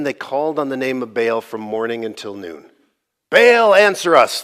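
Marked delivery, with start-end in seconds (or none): 3.3-4.4 higher, louder drawn-out call; mock-desperate shout. Prophets calling on Baal for fire, acted shout. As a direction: call out slowly to a god, acted. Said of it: "they shouted".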